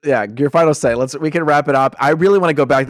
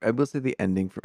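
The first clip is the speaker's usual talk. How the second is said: whispering; 9 dB quieter than usual. Real, not acted. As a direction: whisper so nobody hears. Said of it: "I have to whisper".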